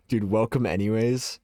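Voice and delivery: rising, incredulous repeat; questioning echo. Retold or imitated. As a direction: echo the words back in disbelief. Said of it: "Makes you sound mean".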